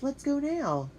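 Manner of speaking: high, bright eager urging. Acted. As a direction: push to go right now. Eager decision to visit jail.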